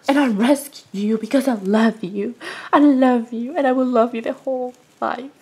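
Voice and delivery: loving talk to the cat; tender. Real, not acted. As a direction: coo it to your pet. Tender words to her cat.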